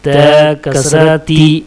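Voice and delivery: measured, level-pitched chant of letter names; spelling drill recitation. Shown as a demonstration. Teacher drilling Arabic letters with kasra for learners, measured recitation. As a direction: recite letter, vowel sign, syllable in even beats.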